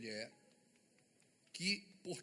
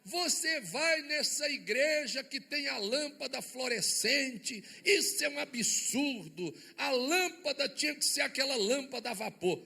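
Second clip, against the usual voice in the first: mock critic; 6 semitones higher, 5 dB louder than usual. Mocking imagined critic.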